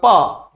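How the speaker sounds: "प," sounded out alone, lips meeting; demonstrated lip sound. Shown as a demonstration. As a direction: say "प," by itself to show lip closure. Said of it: "देखो हमारा ओठ सट रहा है". ("प," ओठ सटाकर, अकेले बोलकर दिखाते हुए)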